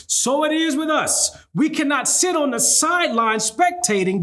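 preaching at full force. Acted. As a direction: build it up like a revival sermon. Preaching building to a call.

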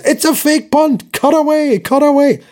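high, urgent broadcast call; hammed-up studio announcer; excited announcer Scott Hanson. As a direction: call it like a live TV host. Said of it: "Scott Hanson says".

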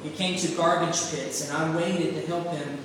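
earnest, expressive storytelling read; preacher reading a short story aloud; story narration. A narrator's reading. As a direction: read the parable to the congregation with feeling. Reads The Rag Man story aloud.

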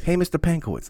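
high, loud greeting, barely holding laughter; trying not to laugh. Retold or imitated. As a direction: greet him, fighting back a laugh. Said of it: "how could you call somebody Mister Pankowitz with a fucking straight face".

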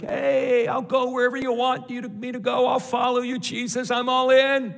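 high, eager pledge of loyalty; Peter. Acted. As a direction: gush like an overkeen follower. Preacher acts out eager Peter.

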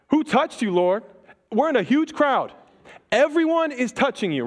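frantic disciples. Retold or imitated. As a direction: push back in a rush, alarmed at the crowd. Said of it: "They're like".

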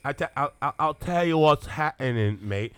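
drawn-out British slip; accidental British accent. Acted. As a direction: slip into the Englishman's accent slowly. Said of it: "I'm sorry, I didn't mean to do that".

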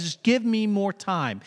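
mildly acted begging, drawn out; acted pleading. Debtor asking the king for time, pleading slowly. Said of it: "he begs and he pleads".

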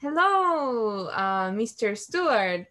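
courteous, measured hello; what dad should have said, polite and slow; polite dad greeting. Retold or imitated. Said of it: "instead of saying".

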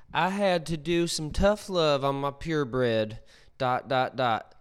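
a hint of a preachy dog owner reading her post; lightly voiced self-righteous owner, reading out every dot; imitation voice. Reading a stranger's post aloud, lightly mimicking the woman who wrote it. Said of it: "I'll do my best, uh, imitation voice".

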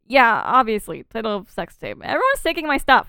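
hammed-up sulky outburst; mock temper tantrum. Host quoting Jake losing his catchphrase, mock tantrum. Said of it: "he's throwing a temper tantrum".

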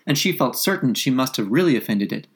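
ordinary delivery, nothing marked

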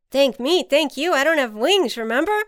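high, loud, bouncy protest; animated storybook ant, emphatic; playful correction. A narrator's reading. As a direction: deflect thanks with cheerful disbelief. Ant deflects the thanks.

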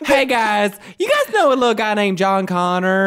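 a silly high-pitched Terminator; goofy Terminator. Pretend. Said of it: "I want that person to play the Terminator".

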